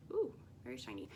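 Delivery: ordinary talk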